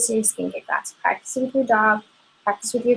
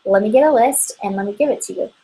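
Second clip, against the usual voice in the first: helpful answer demo; 3 semitones higher, faster than usual. Shown as a demonstration. Consultant demonstrates thanking an allergic customer, gladly. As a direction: thank her for telling you.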